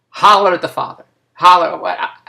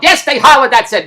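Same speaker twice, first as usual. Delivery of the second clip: louder, higher impatient yes; exasperated retort; 6 semitones higher, 6 dB louder than usual. Retold or imitated. Daughter answering the same question, exasperated. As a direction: confirm it as if closing the matter. Friend snaps back in retold argument.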